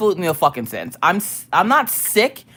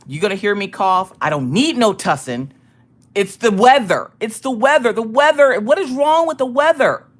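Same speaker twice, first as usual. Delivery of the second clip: mock indignant rant; 3 semitones higher, 5 dB louder than usual. Joking about cough, loud.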